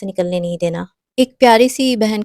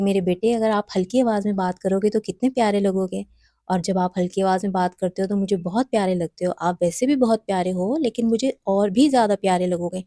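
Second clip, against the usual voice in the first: loving coaxing. Shown as a demonstration. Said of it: "آپ اس کو یہ کہیں".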